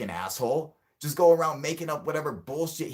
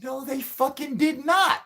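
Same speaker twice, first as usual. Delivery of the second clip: much higher, slow, drawn-out denial; slow, high, outraged no; outraged high yell; 14 semitones higher, 4 dB louder than usual. Real, not acted. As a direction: cry out in outrage.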